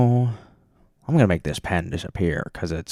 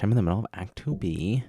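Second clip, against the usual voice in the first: ends on a rise instead of a fall; odd rising tune; faster than usual. Shown as a demonstration. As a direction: end it up like a question. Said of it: "I don't know why I said it like that".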